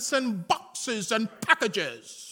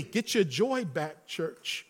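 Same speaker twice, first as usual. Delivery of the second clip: soft closing call; 8 semitones lower, 9 dB quieter, slower than usual. Real, not acted. Closing altar call, repeated.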